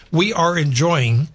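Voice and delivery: enjoying drawn out slowly with weight; stress on enjoying. Shown as a demonstration. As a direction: lean on the word enjoying and stretch it. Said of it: "Emphasis on the word enjoying".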